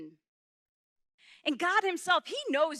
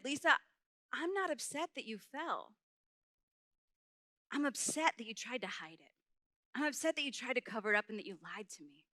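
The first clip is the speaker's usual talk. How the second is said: soft, measured motherly reproach; serious mom; 6 dB quieter than usual. Retold or imitated. Mom confronts her child about the cover-up, soft and grave. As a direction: deliver the disappointment quietly, weighing each phrase.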